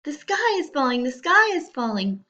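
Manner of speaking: high, loud and quick frantic cry; panicked scream. Acted. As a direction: rush it out in terror. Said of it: "screamed as they ran".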